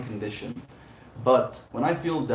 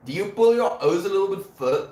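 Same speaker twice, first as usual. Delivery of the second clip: louder, higher, hammed-up Scottish-Irish accent; Scottish-Irish accent attempt; 9 semitones higher, 6 dB louder than usual. Shown as a demonstration. Streamer testing how the O's go, shaky attempt at Scottish-Irish accent. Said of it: "probably going to try and mimic".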